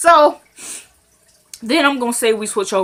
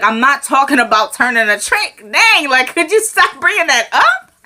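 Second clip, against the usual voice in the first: louder, rising exasperated retort; mock irritation; 4 semitones higher, 4 dB louder than usual. Oscar rejecting Quita's repeated offer, exasperated. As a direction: build in pitch as patience runs out.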